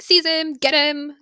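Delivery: hammed-up urgent command; mock villain command. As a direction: order an attack, imitating a villain. Villain's order to his servant, acted.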